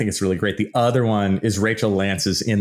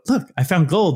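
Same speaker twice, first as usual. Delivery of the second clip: higher, pushing the find again; mock eager reveal; 9 semitones higher than usual. Host showing gold again, mock eager. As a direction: try to impress once more.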